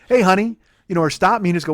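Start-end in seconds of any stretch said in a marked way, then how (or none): 0.1-0.6 mock sweet greeting. Imagined playful greeting from her.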